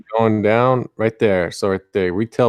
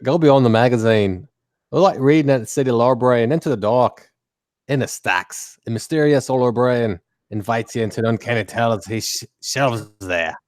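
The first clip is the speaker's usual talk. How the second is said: lightly voiced character read; a hint of a storyteller character. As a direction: read the blurb in a put-on voice. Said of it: "I'll read it in a voice".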